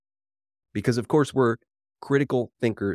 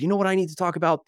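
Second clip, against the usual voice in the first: mock eager journalist; 6 semitones higher, much faster than usual.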